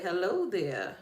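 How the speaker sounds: lightly imitated catchphrase, swooping down at the end; sing-song signature hello, a light impression; Tabitha Brown. Host quoting a famous greeting to viewers, lightly imitated. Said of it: "As Tabitha Brown would say".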